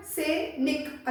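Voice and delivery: सैनिक slowly in two parts, short clipped निक. Shown as a demonstration. Teacher showing pupils the short vowel, सैनिक ending in short "nik". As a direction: split सैनिक and keep the final i short. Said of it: "अब ये निक बोला है मैंने".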